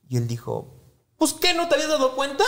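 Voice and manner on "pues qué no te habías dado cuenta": high, laughing mock disbelief; laughing dad. Son retelling dad's reply to mom, laughing high. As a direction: crack up while quoting dad.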